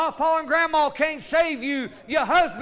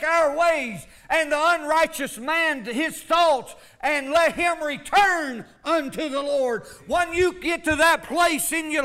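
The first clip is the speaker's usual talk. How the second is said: preaching at full force; 2 semitones higher than usual. Acted. Preacher urging the church toward revival, full-force preaching. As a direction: drive it home like a fired-up preacher.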